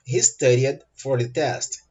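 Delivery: moderately slow, in one connected phrase; connected model sentence. Shown as a demonstration. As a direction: say it slowly but joined up. Teacher repeats sentence more connectedly. (frase-modelo um pouco lenta, sem pausa)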